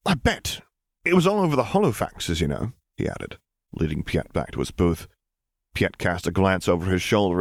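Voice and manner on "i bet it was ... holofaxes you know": Justice. Acted. Justice voiced.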